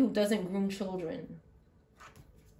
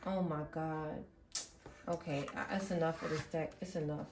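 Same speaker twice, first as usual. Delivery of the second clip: close to tears; 4 semitones lower, 6 dB quieter than usual. Real, not acted. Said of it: "I feel like crying right now".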